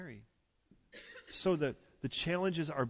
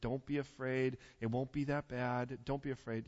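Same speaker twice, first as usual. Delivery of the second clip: gentle reassurance; 3 semitones lower, 3 dB quieter than usual. Acted. Tender reassurance to congregation.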